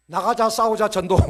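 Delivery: rally-cry slogan, punched out loud; loud marching slogan; slogan shout. Acted. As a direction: chant it like a battle cry. Chanting a church slogan.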